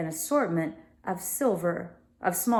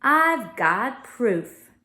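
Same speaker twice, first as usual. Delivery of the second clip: calm; 5 semitones higher, 4 dB louder, much slower than usual. Acted. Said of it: "she said calmly".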